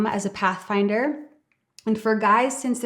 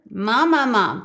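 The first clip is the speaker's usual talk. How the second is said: whinier mum; 3 dB louder than usual. Shown as a demonstration. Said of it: "Make that mum a little bit whinier".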